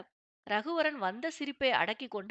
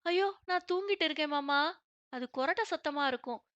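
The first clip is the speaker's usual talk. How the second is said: quick, higher, fibbing innocently; evasive fib; 4 semitones higher than usual. Acted. Wife covering up her grumbling to her husband, evasive. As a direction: dodge the question playfully. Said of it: "என அவள் மழுப்ப".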